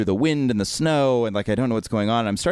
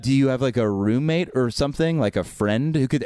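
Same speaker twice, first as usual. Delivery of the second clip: judgy tone; 4 semitones higher than usual. Retold or imitated. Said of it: "and this is his tone".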